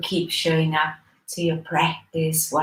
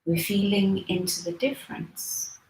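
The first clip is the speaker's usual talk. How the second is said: soft, unhurried meditation guidance with long pauses; guided meditation; 4 dB quieter than usual. Real, not acted. Teacher leading listeners into breathing practice, soft guided meditation. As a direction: ease them gently into the breath.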